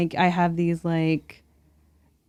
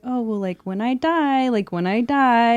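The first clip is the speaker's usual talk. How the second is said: imitating mom's offhand remark, pitched up; nonchalant; 5 semitones higher, 3 dB louder than usual. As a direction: toss it out casually in a higher voice. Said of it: "say it so nonchalantly like that".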